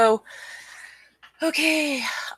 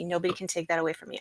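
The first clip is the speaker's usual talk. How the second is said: softer and fast, muttered to herself; softer, quicker repeat; 3 semitones lower, 7 dB quieter, much faster than usual. Real, not acted. Repeating to herself that nobody can take her memory, quickly and softer. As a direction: rush it under your breath the second time.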